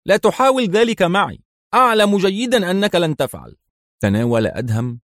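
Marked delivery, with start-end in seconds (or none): 0.0-3.5 higher, strained voice of a scared man acting calm; terrified captive pretending to be calm; forced composure. A narrator's reading. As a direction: fake a steady front over fear. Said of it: "أن يبدو متماسكا".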